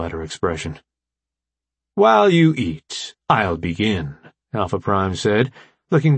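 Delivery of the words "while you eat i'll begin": lightly voiced commanding machine leader; measured, deliberate opening to a briefing; formal AI leader.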